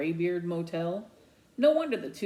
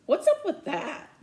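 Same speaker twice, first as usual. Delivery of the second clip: indignant, raised and much higher; loud demand; 10 semitones higher, 5 dB louder than usual. A narrator's reading. Boy demands answers from his friend, loud and indignant. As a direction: demand it, outraged. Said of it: "I demand".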